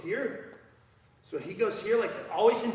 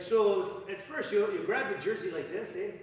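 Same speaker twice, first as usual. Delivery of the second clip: put-on terrible Canadian accent; 3 semitones higher than usual. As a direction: imitate a Canadian hockey player explaining moves. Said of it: "Canadian accent".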